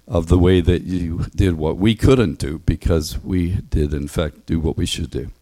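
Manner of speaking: calm, earnest prayer voice; closing prayer. Acted. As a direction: pray it gently to close.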